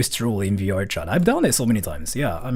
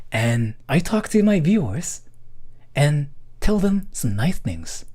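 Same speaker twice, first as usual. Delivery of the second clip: put-on anime boy voice; 3 semitones higher than usual. Still in avatar voice, slow.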